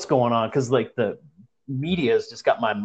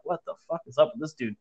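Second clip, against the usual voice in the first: mouthed; 6 dB quieter than usual. Retold or imitated. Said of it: "mouthing, like".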